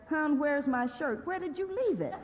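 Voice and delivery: a man who can't find his own shirt; mock helpless husband.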